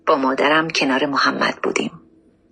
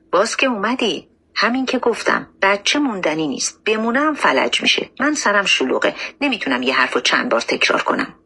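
pitched-up impatient doctor, dropping at the end; mildly acted irritation, higher than the narration; exasperated dismissal; 4 semitones higher than usual. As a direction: brush off a returning parent impatiently. Doctor brusquely dismisses returning mother.

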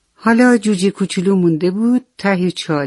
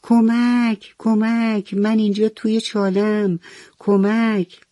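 excited call; 5 semitones higher, slower than usual. Acted. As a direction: leap up calling out gladly. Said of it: "از خوشحالی از جا پرید و گفت".

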